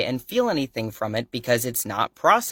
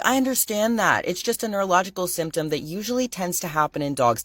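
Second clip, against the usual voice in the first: imitating the vet; 7 semitones higher than usual. Vet explains calmly to panicked owner.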